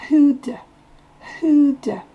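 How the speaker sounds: "Who'd" with do reduced to d; swallowed do. Shown as a demonstration. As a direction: clip "who do" into "Who'd". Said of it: "il est presque de". ("Who'd", le do presque muet)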